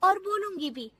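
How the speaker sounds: high, loud, fiery comeback; daughter-in-law standing up angrily; defiant retort. Acted. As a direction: answer back boldly and loudly. Bahu defiantly answers back.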